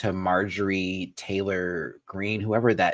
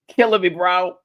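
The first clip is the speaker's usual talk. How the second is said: higher and louder for emphasis; louder emphatic repeat; 8 semitones higher, 6 dB louder than usual. Real, not acted. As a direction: punch it out louder the second time.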